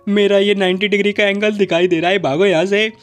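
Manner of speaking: put-on boy panicking and fleeing the bath, shouting; panicked shout. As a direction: yell it in panic and run.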